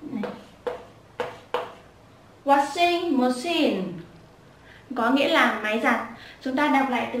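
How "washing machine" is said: "Washing machine" slow, dipping after "Washing", lifting again on "machine"; xuống giọng rồi lên. Shown as a demonstration. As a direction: step the pitch down, then up across "Washing machine". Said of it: "Xuống giọng rồi lên". (đọc "Washing machine" chậm, xuống giọng rồi lên)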